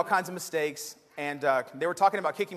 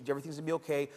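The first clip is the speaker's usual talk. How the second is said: reassuring teacher; 2 semitones lower than usual. Retold or imitated. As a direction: soothe a panicking student. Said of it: "He said".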